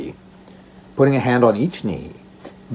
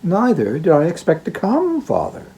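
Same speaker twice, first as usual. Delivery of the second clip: put-on cried the girl; 4 semitones higher than usual. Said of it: "cried the girl".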